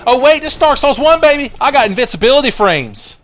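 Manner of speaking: high excited whoop; thrilled about the find, high and loud. Real, not acted. Gamer cheering at a lucky find, high and excited.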